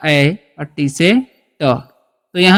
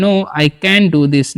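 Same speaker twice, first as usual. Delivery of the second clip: slow dictation; 2 semitones lower, much slower than usual. Shown as a demonstration. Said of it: "इसका इस्तेमाल कर सकते हैं".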